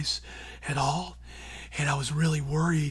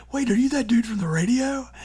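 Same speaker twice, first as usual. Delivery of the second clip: higher and louder, surprised clerk; excited clerk; 8 semitones higher, 5 dB louder than usual. Retold or imitated. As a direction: play the starstruck clerk. Clerk recognizes his voice.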